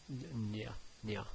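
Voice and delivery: "nya" tried softly and unsure; half-mumbled attempt at "nya"; quiet unsure try. Real, not acted. Teacher fumbling the nya sound, quietly unsure. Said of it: "I don't know how to even say that".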